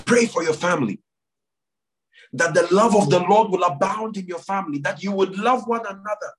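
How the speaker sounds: earnest prayer call with long pauses; leading prayer. Real, not acted. Pastor urging the church to pray for families, solemn prayer leading. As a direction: lead the congregation in prayer, phrase by phrase.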